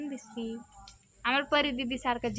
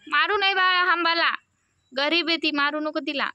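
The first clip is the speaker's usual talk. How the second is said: higher, louder gentle scolding; calling out a warning; 7 semitones higher, 6 dB louder than usual. Real, not acted. Telling child not to hit cow.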